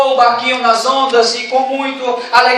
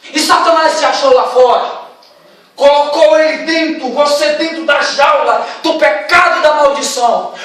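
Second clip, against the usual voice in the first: preaching; 2 semitones higher than usual. Acted. Preacher applying the parable to the congregation, rising and forceful. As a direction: drive the application home to the congregation.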